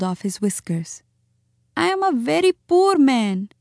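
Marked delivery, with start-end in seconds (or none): 1.8-3.5 high, sobbing self-pity; Chuchundar. A narrator's reading. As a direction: wail it like a wretched little muskrat. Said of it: "he sobbed".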